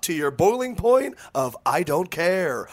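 host it like a quiz show; prize announcer. Acted. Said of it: "I would like to be a game show announcer".

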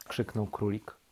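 ordinary delivery, nothing marked

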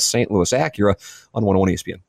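usual speaking voice

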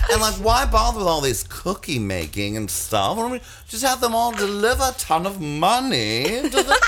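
lightly voiced airy socialite pitching ideas; Shelley Long. Posh mother pitching a fashion event to PTA, lightly mimicked. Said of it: "she's like Shelley Long".

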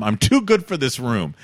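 thick Russian accent, mock diva. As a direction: lay on a heavy Russian accent. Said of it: "in a thick Russian accent".

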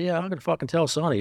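high, heated retort; angry threat. Retold or imitated. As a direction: snap back with a threat. Retold threat to partner.

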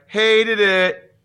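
loud, high mock critic verdict; hammed-up In Living Color catchphrase; sketch catchphrase. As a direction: snap it out like a TV critic. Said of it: "they'd be like".

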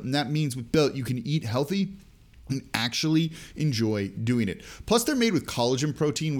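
upbeat podcast sponsor read. Acted. Podcast host pitching a protein bar to listeners, upbeat ad read. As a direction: sell the snack like a friendly host ad.

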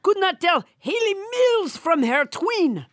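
hammed-up puppet Trump voice, bossy and boastful; French Trump puppet. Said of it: "everybody's least favorite hand puppet, French Trump".

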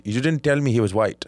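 put-on dad's shocked outburst in an Indian accent; imitated Indian accent. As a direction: bark it like a stunned Indian father. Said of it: "By the way, great Indian accent".

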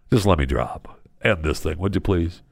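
low, subdued mock begging; worn-down husband pleading under his breath; weary plea. Husband begs rescuer to end this thing, weary plea. Imagined husband wants to be dropped.

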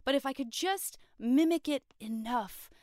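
hopeful Aang. Retold or imitated. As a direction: play it like a hopeful kid with a plan. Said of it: "It's like".

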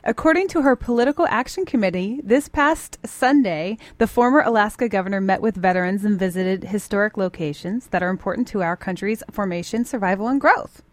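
projected, measured radio news delivery; light newsreader cadence; news read. Real, not acted. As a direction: read it as a straight news story. Reads the news script.

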